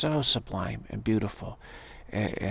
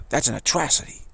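dismissive harpy voice; 4 semitones higher, 4 dB louder, faster than usual. Retold or imitated. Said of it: "dismissing kind of voice".

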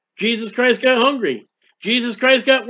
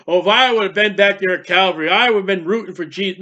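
mock boast; faster than usual. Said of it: "it's foolish to say".

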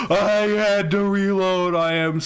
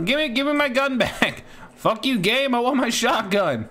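frantic demand; 5 semitones higher than usual. Real, not acted. Demanding gun back from game.

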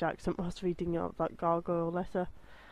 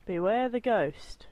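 spooky warning; 4 dB louder, slower than usual. Pretend.

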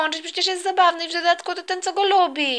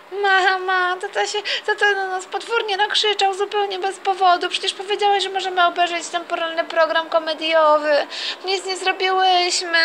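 put-on young daughter voice; 2 semitones higher than usual. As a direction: play a little girl telling on her dad. Girl complaining to mom about dad.

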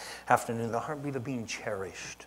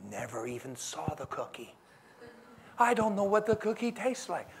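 put-on high, far-off little kid voice fibbing; child denying; 7 semitones higher than usual. Child insisting to parent he never saw the cookie, high kid voice. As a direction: play a kid lying about the cookie.

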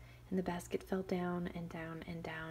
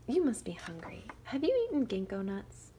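put-on higher, louder innocent child voice; sweet cunning girl; 4 semitones higher, 6 dB louder than usual. Shang tempting the wolf, sweetly innocent.

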